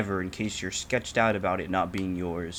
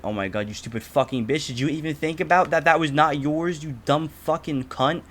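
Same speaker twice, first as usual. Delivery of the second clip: going off; 6 semitones higher than usual. Retold or imitated. Yelling at the lady who took his Uber: retold angry rant. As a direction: tear into her for stealing the ride. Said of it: "I mean, I went off".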